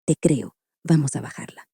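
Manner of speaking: hushed, gentle promise to a frightened patient; soft reassuring. Shown as a demonstration. Doctor softly reassuring a patient who hears voices, gentle and hushed. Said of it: "se calla cuando alguien dice".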